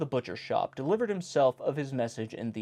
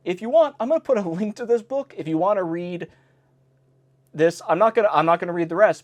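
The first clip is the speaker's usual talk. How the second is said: flustered; 5 semitones higher, 5 dB louder than usual. Real, not acted. Embarrassed, high, loud.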